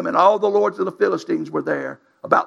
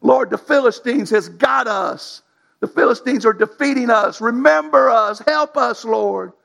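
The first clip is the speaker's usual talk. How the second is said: pleading prayer; 4 semitones higher than usual. Pretend. Families crying out to God.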